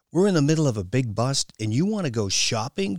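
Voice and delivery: mock disbelief with a chuckle; chortling. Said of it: "chortled Misha".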